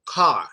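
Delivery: Car with a wide open jaw; jaw-dropped car. Shown as a demonstration. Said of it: "you typically have to drop your jaw".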